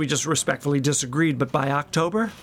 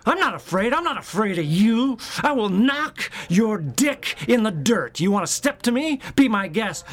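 tough-guy threat; 3 semitones higher than usual. Retold or imitated. Boasting to a rival kid, mock-menacing. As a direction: square up and threaten him. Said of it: "So I say".

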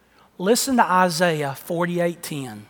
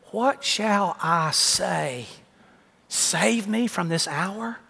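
slow, soft, prayerful voice; a slow, hushed, reverent prayer; hushed prayer quote; 3 dB quieter, slower than usual. Retold or imitated. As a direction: pray it quietly, like Jesus in anguish. Quoting Jesus' prayer softly.

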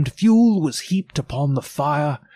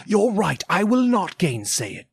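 put-on higher, earnest old man; a moved old miser conceding; wistful Scrooge voice; 7 semitones higher than usual. Scrooge answers the ghost.

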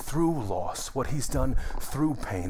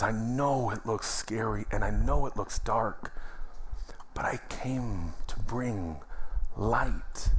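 tender voice of Jesus; 2 semitones lower than usual. Retold or imitated. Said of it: "And he says".

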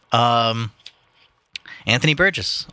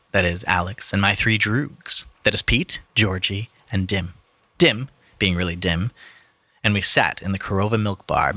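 story reading. Acted. Reading the book to his podcast friends, measured narration. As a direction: read it like an audiobook narrator. Reads the novel aloud.

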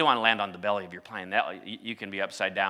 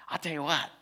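hushed whisper; 5 semitones higher, 6 dB quieter than usual. Real, not acted. Preacher whispering to the congregation after the landing story. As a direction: drop to a breathy whisper, almost secret.

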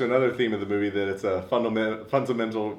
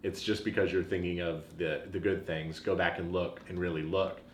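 preaching sister; 4 semitones lower, 3 dB quieter than usual. Retold or imitated. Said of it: "she's preaching".

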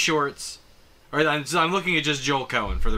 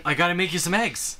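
Minnesota husband voice; 3 semitones higher, faster than usual. Retold or imitated. Quoting movie husband.

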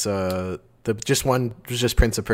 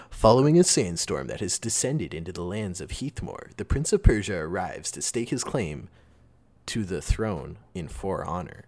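movie trailer voice; 2 semitones lower than usual. Shown as a demonstration. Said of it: "I'm gonna do the movie guy voice".

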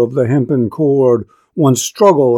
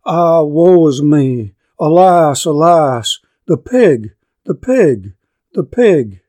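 wailing; 3 semitones higher than usual. Acted. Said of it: "thus she spoke in thrilling tone".

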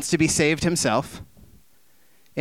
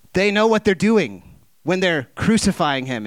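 indignant protest; 5 semitones higher, 4 dB louder than usual. Retold or imitated. Indignant counterpoint.

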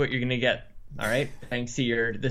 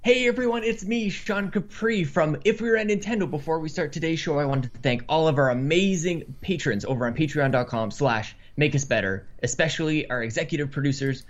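upbeat podcast host opening; show intro voice. Acted. Final intro read.

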